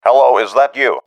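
anxious man on the phone; anxious caller. A narrator's reading. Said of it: "familiar and anxious voice of Staines".

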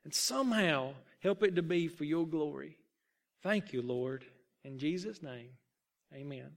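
hushed closing prayer, trailing off. A narrator's reading. End of a prayer in the story.

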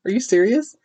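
quick dismissive scoff; host mimics Blake scoffing at Matthew, quick dismissive scoff. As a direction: brush it off like a rich old man. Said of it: "And he's like".

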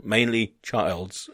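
slow, lightly imitated Dutch English; a hint of Dutch accent, drawn out. Dutch desk worker explaining lost people, light Dutch accent. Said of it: "she's, uh, she's Dutch".

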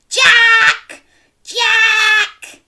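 high, loud shout. Shown as a demonstration. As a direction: call out at full voice. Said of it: "Can you shout "Jack" at the top of your voice".

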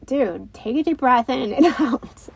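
a hint of a little boy coaching his brother, laughing at the end; lightly voiced kid telling his brother to breathe, with a laugh; son's voice. Older son tells crying younger brother to breathe, lightly voiced kid. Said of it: "he'll just like".

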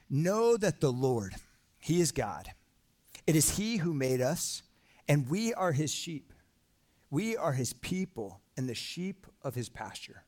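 slow, solemn reading of the psalm; scripture reading. Acted. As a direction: read each line slowly, like a declaration. Reads psalm aloud to congregation.

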